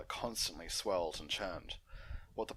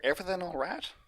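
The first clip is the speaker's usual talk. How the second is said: much higher, louder sister voice; Applejack voice; 11 semitones higher, 6 dB louder, faster than usual. Acted. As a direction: sister checking in. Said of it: "asked Applejack".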